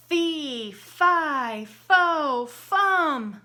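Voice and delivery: loud, high giant roar. Acted. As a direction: roar each word. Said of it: "roared the giant".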